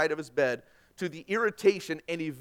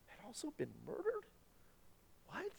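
incredulous question; 9 semitones higher, 18 dB quieter than usual. Shown as a demonstration. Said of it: "it didn't read that way".

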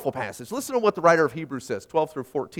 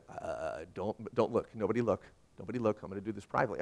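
mock-sheepish, hushed and lower, hiding from the room; embarrassed hushed voice; 9 semitones lower, 12 dB quieter, faster than usual. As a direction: play the guilty churchgoer shushing everyone, softly. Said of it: "would you say".

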